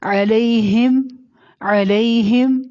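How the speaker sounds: علیہم slow, with a soft drawn-out lay; soft glide. Shown as a demonstration. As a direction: recite علیہم slowly from a throaty ع. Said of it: "لئی کو نرمی سے پڑھنا ہے". (علیہم ٹھہر کر، لئی نرمی سے)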